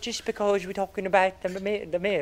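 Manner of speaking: put-on British accent sliding into Irish; badly faked British-Irish lilt. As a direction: insist in a wobbly British accent. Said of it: "And it's Irish again".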